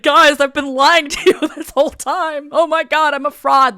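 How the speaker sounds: loud, high hammed-up panic; imitated hysterical confession with a laugh; mock grand confession. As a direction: blurt it out like an overdramatic reveal. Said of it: "do a grand reveal and be like".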